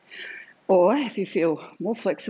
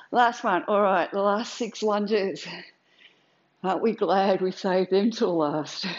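shaky voice. Real, not acted. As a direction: voice shaking from exertion. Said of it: "My voice is shaking".

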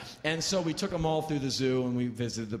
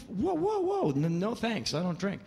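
much higher, alarmed whoa, whoa; startled refusal; 6 semitones higher than usual. Retold or imitated. Offered whiskey by cab drivers, startled high refusal. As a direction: back away from the whiskey in alarm.

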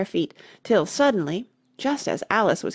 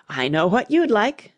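mildly good-natured, knowing offer; 4 dB louder than usual. A narrator's reading. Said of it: "the Queen said good-naturedly".

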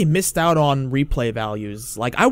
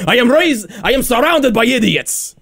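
raised, theatrical despair; mock exasperation; 5 semitones higher, 3 dB louder than usual. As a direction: lament loudly over useless company. Ezio exasperated by companions.

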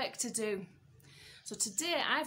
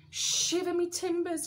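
higher, louder pirate exclamation; cried out; 4 semitones higher, 5 dB louder than usual. Acted. George finding the hat and map, crying out. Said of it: "cried George".

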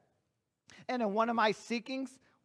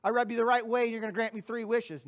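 mock greedy; faster than usual. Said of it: "I wasn't saying".

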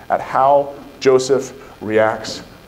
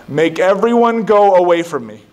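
raised, higher anguished cry; cried out; 8 semitones higher, 6 dB louder than usual. A narrator's reading. Joseph ordering everyone out, crying out. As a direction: cry it out, overcome. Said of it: "And he cried out".

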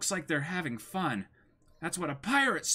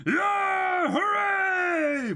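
much higher, loud crew cheer; rowdy cheer; 12 semitones higher, 5 dB louder, much slower than usual. Acted. Pirate crew cheering for the special buggy balls, rowdy whoop.

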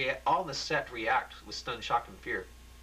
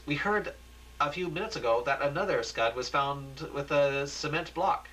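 lightly voiced Michelle; 3 semitones higher than usual. Anchor Michelle reporting to Dave, lightly voiced. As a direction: restart the line as the anchor. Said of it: "Michelle says".

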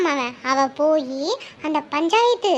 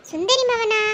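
surprised; 6 semitones higher, slower than usual. Acted. Geetha surprised.

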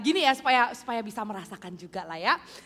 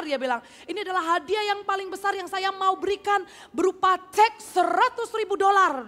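higher, louder grand announcement; showy announcement; 7 semitones higher, 4 dB louder than usual. Retold or imitated. Seminar speaker announcing the biggest prize to the audience, showy. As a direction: build up the big prize.

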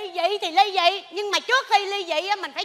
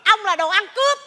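quarrelling; 3 dB louder than usual. Acted. Married couple trading insults.

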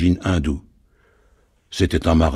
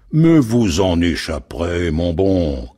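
metallic voice; 3 dB louder, slower than usual. Acted. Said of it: "clama la voix métallique de Gilchrist".

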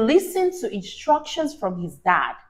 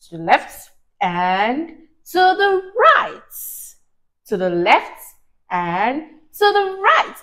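sing-song left and right. Shown as a demonstration. Mother leading the child through the swim, sing-song. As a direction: swing the voice down then up. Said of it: "Let's go to the left together".

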